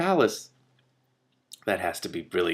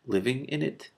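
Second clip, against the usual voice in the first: calm; 4 semitones higher, 4 dB quieter than usual. A narrator's reading. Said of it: "Morwen answered calmly".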